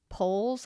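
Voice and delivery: "Poles" with a long round o; odd accent. Real, not acted. Vlogger catching her own odd accent on "Poles". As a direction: stretch "Poles" like pohlz. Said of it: "I don't know why I said that with that accent".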